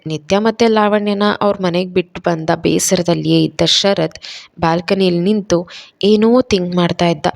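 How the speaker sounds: ordinary delivery, nothing marked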